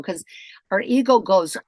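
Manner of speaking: ordinary talk, nothing marked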